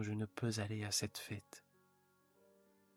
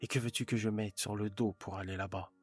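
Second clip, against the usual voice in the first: louder, impatient retort; louder, exasperated wife; 5 dB louder than usual. Acted. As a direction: snap back impatiently at her husband. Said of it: "déclara avec impatience".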